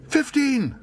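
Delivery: very high, loud, wild shout. Acted. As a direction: fling out the bid wildly. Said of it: "shouted Paddington wildly".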